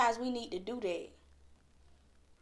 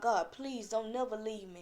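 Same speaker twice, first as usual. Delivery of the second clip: soft, heartfelt prayer; humble, softly spoken entreaty; sincere plea to God; 5 dB quieter than usual. Shown as a demonstration. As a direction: show how to ask God earnestly. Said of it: "No, I want you to tell God".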